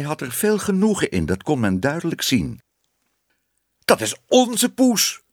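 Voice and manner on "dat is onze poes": very high, slow outcry; crying out. A narrator's reading. Minister recognises the church cat, crying out high and slow. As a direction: call out slowly, pitched right up. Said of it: "riep de dominee".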